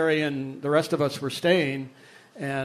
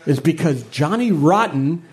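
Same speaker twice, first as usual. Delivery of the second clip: Richard Branson; slower than usual. Retold or imitated. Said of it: "Richard Branson goes".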